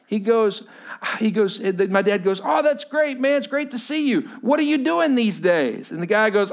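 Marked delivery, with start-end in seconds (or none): 2.4-5.9 high-pitched imitation of a hearty greeting; friendly small talk. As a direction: gush politely, drawing out the question. Dad's friendly small talk, acted.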